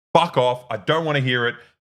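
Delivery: mock angry ranting tirade. Retelling telling a woman off, re-enacting the speaker's own angry tirade. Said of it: "in the middle of my tirade".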